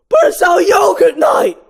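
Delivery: high, loud whining shout; high loud mock protest; Ken protesting. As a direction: wail it like a betrayed boyfriend.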